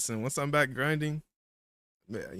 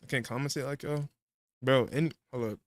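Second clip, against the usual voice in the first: talking with food in mouth; words around a mouthful of food; mouth full. Real, not acted. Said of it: "I got food in my mouth".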